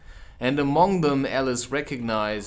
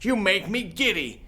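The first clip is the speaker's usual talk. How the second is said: much higher queen voice; peevish Queen; 9 semitones higher than usual. Acted. The Queen complains the bowing makes her giddy. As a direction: complain grandly.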